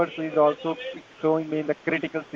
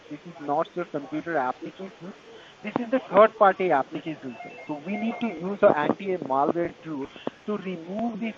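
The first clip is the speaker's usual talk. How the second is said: Indian call center. Real, not acted. Tech support scam call agent.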